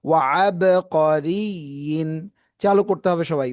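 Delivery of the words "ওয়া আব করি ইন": আব drawn out with a rising chant; slow recitation. Shown as a demonstration. Teacher leads the class in slow chanted recitation. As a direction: chant ওয়া আব করি slowly. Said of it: "teacher models recitation".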